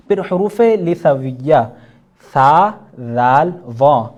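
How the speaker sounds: ثا ذال said slowly and loud with tongue on teeth; clear letter demo. Shown as a demonstration. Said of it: "ثا کی جگہ جو ہے سین". (ثا ذال زبان دانتوں پر)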